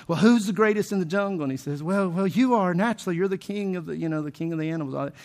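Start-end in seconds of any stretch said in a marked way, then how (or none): 0.1-1.4 higher lion challenge, only mildly raised; lightly voiced boastful lion; roaring lion. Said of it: "roars really loud". 1.8-5.1 lightly voiced flustered monkey; a hint of a nervous monkey; scared monkey. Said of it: "the monkey's all scared".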